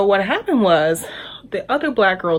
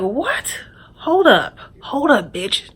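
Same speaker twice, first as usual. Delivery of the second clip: higher, sharp mock comeback; indignant retort; 6 semitones higher, much slower than usual. Olivia snaps back at the friend, indignant retort. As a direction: push back in disbelief.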